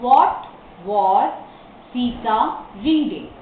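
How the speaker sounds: slow dictation with a pause after each word. Shown as a demonstration. Teacher shows how to form the question, word by word. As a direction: separate every word for learners.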